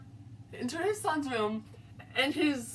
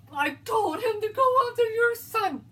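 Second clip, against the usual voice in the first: higher, louder tearful cry; guilty friend sobbing out a confession; 7 semitones higher, 6 dB louder than usual. A narrator's reading. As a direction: break down as you confess.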